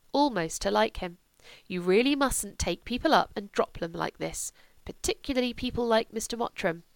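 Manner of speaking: a hint of a stern, composed mother; lightly voiced reproving mother. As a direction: gently scold your daughter.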